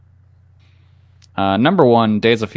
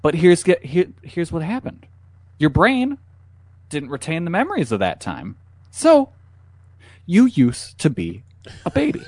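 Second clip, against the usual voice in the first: clickbait video narrator; 4 semitones higher than usual. Pretend.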